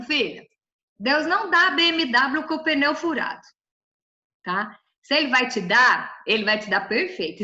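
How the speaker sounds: normal talking voice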